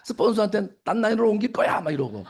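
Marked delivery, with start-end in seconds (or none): 0.8-1.8 mildly heated ultimatum; imitated outburst at a sponsor; mock angry threat. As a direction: threaten to walk out, lightly acted. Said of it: "막 화를 내서 끌어들여야 된다".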